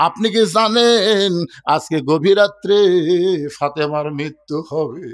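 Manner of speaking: slow, lingering lament with long pauses; mournful. Acted. Fatema telling her husband of her death tonight, mournful.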